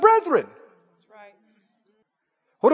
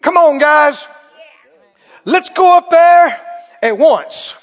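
louder and higher, urging the crowd on; excited call to charge in; eager rallying call; 4 semitones higher, 6 dB louder, slower than usual. Acted. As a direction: fire them up to go now. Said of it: "and he said".

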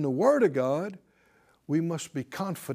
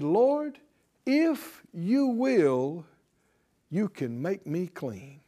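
leper's plea; slower than usual. Acted. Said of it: "and said".

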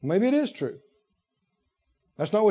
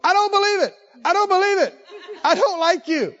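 high, laughing mock of an angry listener; mocking churchgoer; 9 semitones higher than usual. Preacher mocks a hostile churchgoer, high and amused. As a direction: play the grumbling objector for laughs. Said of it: "people follow me down the hall going".

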